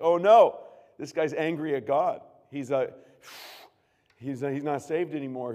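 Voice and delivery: loud, alarmed rush of worry; retelling his own loud alarm; panicked youth pastor. Retold or imitated. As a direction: blurt it out in a panic. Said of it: "I'm like".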